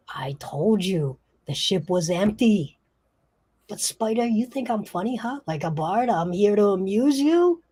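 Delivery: Branzino. Acted. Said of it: "Branzino says".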